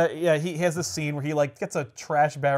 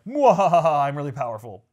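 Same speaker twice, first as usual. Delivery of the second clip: mock evil laugh then smug; sneering panto villain; 5 dB louder than usual. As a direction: cackle like a cartoon villain. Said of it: "Magneto's like".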